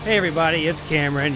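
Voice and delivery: usual speaking voice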